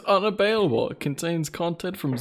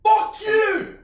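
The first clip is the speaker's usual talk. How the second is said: put-on Scottish accent; 4 dB louder than usual. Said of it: "can you do your best Scottish accent".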